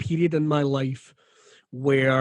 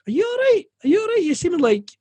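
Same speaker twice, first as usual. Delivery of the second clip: high-pitched imitation of someone checking on you; much higher, mock-concerned questions; acted concerned questioning; 3 dB louder, faster than usual. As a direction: put on a high, fussing voice to ask. Someone nosily asks him if he's okay.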